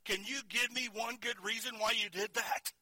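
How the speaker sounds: high, breathless exasperation at his son; exasperated. Retold or imitated. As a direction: ask it like a startled, winded father. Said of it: "I gasped in exasperation".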